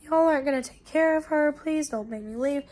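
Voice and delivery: retold plea that starts high and softens; pleading sister. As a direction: imitate a relative begging to stay. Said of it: "and the sister was like".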